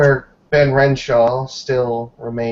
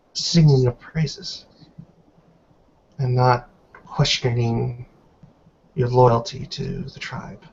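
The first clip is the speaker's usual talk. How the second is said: put-on measured, grave reproach from an old woman; lightly voiced stern elder. Elder matriarch scolding Miss Stewart in her cell, stern and disappointed.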